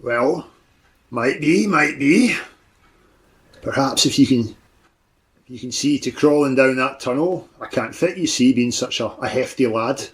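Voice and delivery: a lightly voiced hulking warlock, gruff refusal; a hint of a big brute brushing off a deal; Fletcher the warlock. GM as the warlock refusing the players' offer, lightly gruff.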